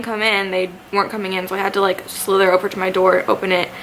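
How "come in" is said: usual speaking voice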